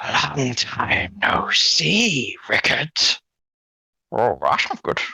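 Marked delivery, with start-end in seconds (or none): 0.0-2.9 very gaspy, airy, slow voice. A voice from the bushes across the path greets a traveler, very gaspy voice. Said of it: "a very gaspy voice of".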